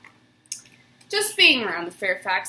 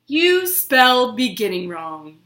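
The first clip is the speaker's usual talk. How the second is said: louder, stern correcting teacher; 6 dB louder than usual. Acted. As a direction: scold the boy's spelling firmly. Teacher corrects young George.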